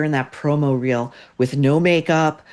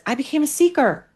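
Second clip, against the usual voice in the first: mocking Hoda. Host parodying Hoda's quote, lightly mocking. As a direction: parody her dreamy self-importance. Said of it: "Next, she says".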